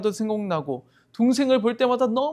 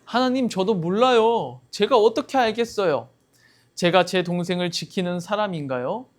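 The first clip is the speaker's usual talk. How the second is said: acted shameless reply, pitched up at first; brazen denial. Cain answers God about his missing brother, mock-brazen denial. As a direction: play innocent with cheeky indignation. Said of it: "가인은 뻔뻔하게 대답합니다".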